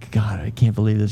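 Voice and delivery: breathy whispered dismay. Retold or imitated. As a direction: mutter it under your breath in disbelief. Dismay at being called out.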